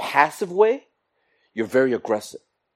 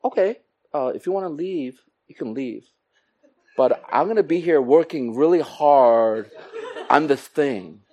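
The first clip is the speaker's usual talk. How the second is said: lightly voiced guilt-tripping boss; mock sweet permission, loaded with guilt; a touch of martyr sighing; passive-aggressive boss. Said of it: "the boss will be like".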